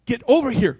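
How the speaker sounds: level, unhurried call without alarm; calm call. Retold or imitated. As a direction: call gently so the kids don't startle. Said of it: "I don't wanna run over and spook 'em".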